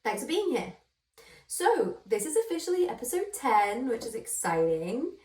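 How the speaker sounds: put-on bright, show-opening intro in a light American accent. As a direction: welcome the listeners like a US podcast host. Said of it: "I don't know why I did an American accent".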